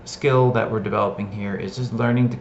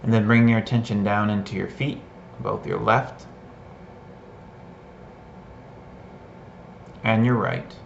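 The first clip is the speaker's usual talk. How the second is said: measured guiding voice with long pauses; guided meditation; 3 dB quieter than usual. Shown as a demonstration. Teacher leading listeners to sense hands and feet, guided meditation. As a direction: guide attention through the body, pausing after each instruction. Leads a short sensing exercise.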